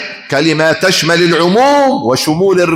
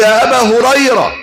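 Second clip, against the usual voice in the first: mother calling; 8 semitones higher than usual. Acted. Mother calling her son.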